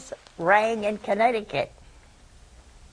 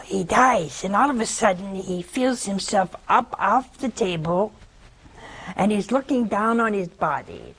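ordinary delivery

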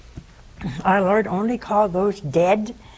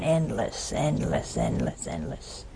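each endless lower and softer until a whisper; fading into the distance; 12 semitones lower, 6 dB quieter, slower than usual. Acted. Describing the endless horizon, fading to a whisper. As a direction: let the word drift away.

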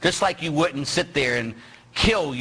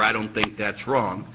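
mock objection; 5 semitones lower than usual. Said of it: "We don't decide".

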